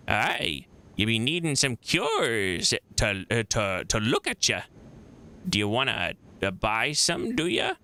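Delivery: lightly voiced rustic old woman; a hint of old midwife, with rising tags; old crone. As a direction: offer your wares like a folksy crone. Old midwife offers cures.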